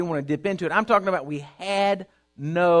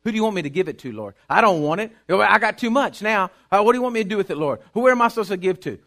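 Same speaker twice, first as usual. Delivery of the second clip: grateful prayer; 3 semitones lower, faster than usual. Retold or imitated. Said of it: "on my porch saying".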